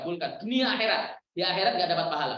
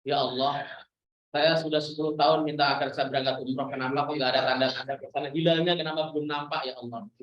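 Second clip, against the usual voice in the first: complaining prayer; 5 semitones lower than usual. Retold or imitated. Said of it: "Nggak usah kemudian".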